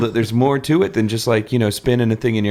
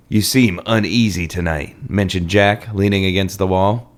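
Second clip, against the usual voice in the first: dramatic reading; 4 semitones lower than usual. Acted. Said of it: "Let's start off with a dramatic reading".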